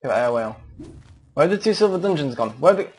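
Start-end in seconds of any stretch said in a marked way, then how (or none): 1.3-2.5 high frantic yelling of the question; panicked shout. Real, not acted. Same words while fleeing. 2.5-2.9 frantic high-pitched yelling; being chased. Real, not acted. Lost while fleeing.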